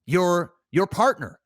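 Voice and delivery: a mild take on a chummy interviewer; a hint of a Canadian interviewer drawing out each detail; Nardwuar impression. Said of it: "And that's how he talks".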